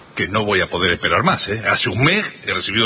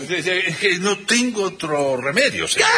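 flustered stammering shout; 5 semitones higher than usual. Acted. Landlord stammers under pressure.

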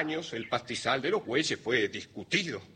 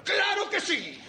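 very high shouted retort; shouting; 14 semitones higher than usual. Acted. Landowner contradicting the father, shouting. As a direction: shout back at the top of your range. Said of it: "Con gritar no demostrará nada".

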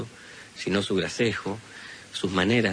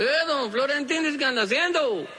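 voiced old healer. Healer Samaniego answers Florentín.

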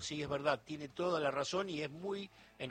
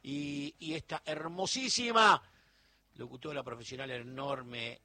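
excited sign-off; 5 dB louder than usual. Real, not acted. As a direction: hype up the late-night crowd. Host signing off, hyping listeners.

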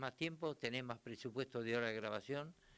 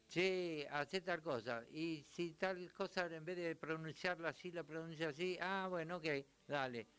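lightly acted studio chat, pitched higher; bandmate suggesting changes; 4 semitones higher than usual. Musician proposes a tweak to bandmates in studio, lightly acted suggestion. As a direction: casually imitate musicians trading ideas, slightly higher.

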